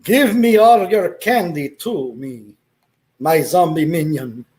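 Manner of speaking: a lightly voiced Count; dad playing vampire for his son; mock vampire.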